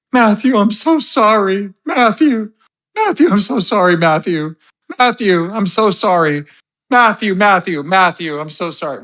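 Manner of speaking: high, hammed-up sobbing apology; mock crying. Host mocks Gigi's apology to Matthew, high mock sobbing. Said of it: "does the whole crying thing".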